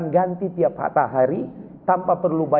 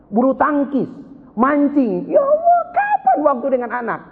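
exasperated preaching; 9 semitones higher than usual. Real, not acted. Preacher rebuking fathers, high and exasperated. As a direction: voice climbing in dismay at absent fathers.

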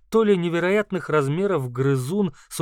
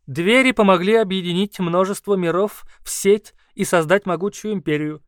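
higher, louder squeaky lecturing beast; squeaky creature voice; 3 semitones higher, 5 dB louder than usual. Acted. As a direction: explain like a squeaky scholar. Kauru explains.

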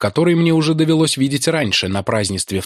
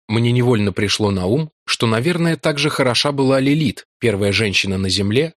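ordinary delivery

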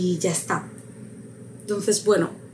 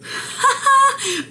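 high burst of happy laughter; delighted laugh. Real, not acted. Player laughs at her lucky right answer, delighted.

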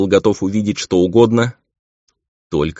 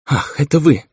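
relieved sigh; 9 semitones higher, 3 dB louder than usual. A narrator's reading. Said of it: "Со вздохом облегчения".

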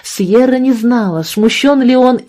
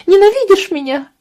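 sobbing; 12 semitones higher than usual. A narrator's reading. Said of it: "рыдала девочка".

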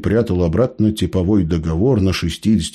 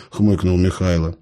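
plain reading voice

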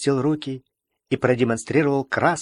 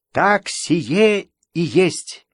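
firm; 5 semitones higher, much slower than usual. A narrator's reading. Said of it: "подтвердил я".

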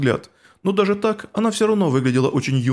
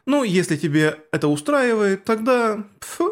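smug sneer; 5 semitones higher than usual. Acted. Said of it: "ехидно улыбнулась".

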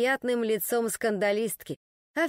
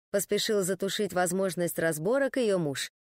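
ordinary delivery

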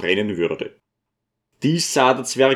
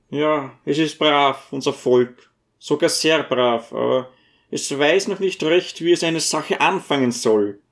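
a higher little man pleading for his people; dwarf voice; 4 semitones higher than usual. A narrator's reading. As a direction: pitch up into the small dwarf's voice.

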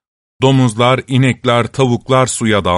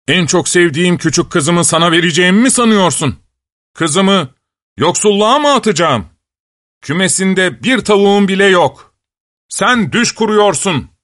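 angry shout; 6 semitones higher than usual. Acted. Farmer shouts at the poor suitor, raised and angry. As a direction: scold him out of the house. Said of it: "diye bağırmış çiftçi".

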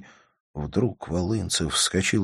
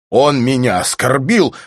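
louder, higher indignant cry; angry cry; 7 semitones higher, 8 dB louder than usual. Acted. Volyntsev pacing the room over the insult, angry cry. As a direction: hurl out the grievance.

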